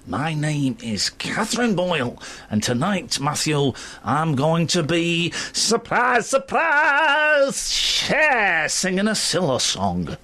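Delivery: hammed-up slow Manchester impression; mock Manchester accent. Presenter teasing his co-host about her introduction, mock Manchester accent. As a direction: put on a drawn-out northern Manchester accent. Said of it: "In your lovely Manchester accent".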